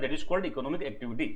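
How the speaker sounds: slow, word by word for notes; slow dictation. Shown as a demonstration. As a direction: spell it out slowly so students can write. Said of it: "teacher dictates definition slowly". (धीरे-धीरे लिखवाते हुए)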